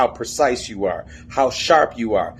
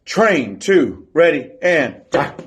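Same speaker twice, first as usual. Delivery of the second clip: called count-in like a drill leader; drill command; slower than usual. Shown as a demonstration. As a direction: call the step for the team. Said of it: "I'll say".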